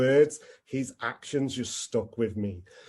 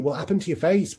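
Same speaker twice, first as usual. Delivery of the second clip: "face" pushed higher and louder than the first ask; pressing louder; 5 semitones higher, 4 dB louder, faster than usual. Retold or imitated. Guy at the bar repeats his question to the server, louder. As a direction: demand it again, insisting.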